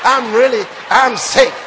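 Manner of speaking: mock complaint of sickness with some style; stylish complaint. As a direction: lay on the "I'm sick" with relish, imitating. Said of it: "put some style into it".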